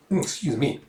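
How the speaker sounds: a hushed second try at excuse me. Shown as a demonstration. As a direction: murmur it as if embarrassed.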